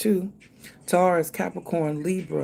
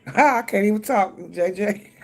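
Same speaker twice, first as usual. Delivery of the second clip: laughing through the words at herself; 4 semitones higher, 5 dB louder than usual. Real, not acted. Laughing to viewers about her own legal troubles. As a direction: chuckle it out, embarrassed at herself.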